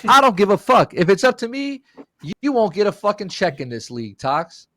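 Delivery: high-pitched irate imitation; retold angry threat. Acts the angry teammate's threat.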